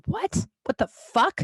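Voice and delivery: high, hushed mock disbelief; retold recoil, pitch jumping up on "what"; shocked disbelief. Woman cornered by creepy bouncer's question, shocked disbelief.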